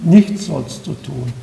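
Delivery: lightly voiced calm counsel; calm answer. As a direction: answer gently and without hurry.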